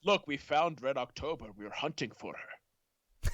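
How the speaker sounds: drawn-out mock-Scottish submarine captain; Sean Connery. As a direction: stretch the ending in a Scottish screen voice. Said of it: "And the Hunt for Red October".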